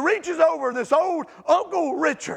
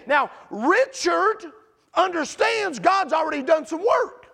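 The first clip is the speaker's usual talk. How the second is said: preaching shout; 4 semitones higher, slower than usual. Real, not acted. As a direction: drive it home like a revival preacher.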